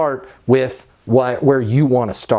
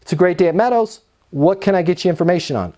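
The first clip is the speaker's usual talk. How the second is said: upbeat phone greeting; 3 semitones higher, faster than usual. Shown as a demonstration. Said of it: "simply answer the phone and say".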